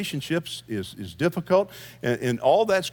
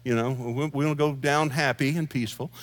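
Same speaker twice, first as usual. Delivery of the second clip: mock calm attendant; 3 dB quieter than usual. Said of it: "The attendant was so calm".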